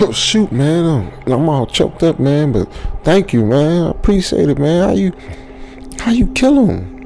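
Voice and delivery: mock-choked thanks rising to a squeaky question; shaken gratitude. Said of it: "I was like".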